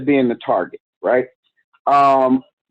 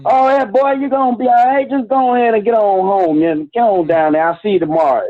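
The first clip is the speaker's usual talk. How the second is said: imitating an old Southern coach's twang, pitched much higher; 8 semitones higher than usual. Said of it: "he talks with that southern twang".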